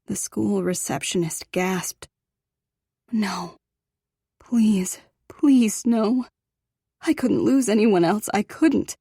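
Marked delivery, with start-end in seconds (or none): 3.1-9.0 breathless, rising desperate plea; panicked pleading. A narrator's reading.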